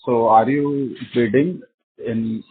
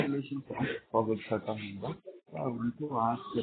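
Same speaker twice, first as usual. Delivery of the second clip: very faint voice on a weak phone line; barely audible; 16 dB quieter, faster than usual. Real, not acted. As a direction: speak barely above a murmur, far from the mic. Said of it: "Bhavik, your voice is very low".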